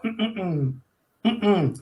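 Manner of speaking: pequenos grunhidos de reação, sem palavras; reações de boneco. Shown as a demonstration. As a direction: murmurar "hum" curtinho, como um boneco reagindo. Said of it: "as reações, um respiro, um suspiro". (reações vocais de dublagem)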